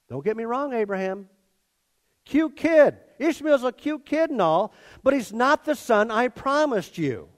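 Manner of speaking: God, lightly conceding. Retold or imitated. God telling Abraham about Ishmael, lightly conceding. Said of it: "God says".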